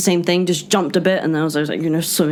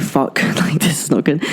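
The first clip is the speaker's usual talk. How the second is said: hushed, breathless curse with a laugh; whispered freaked-out reaction; whispered panic. Retold or imitated. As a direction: whisper it like you're scared to be heard. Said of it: "I was like".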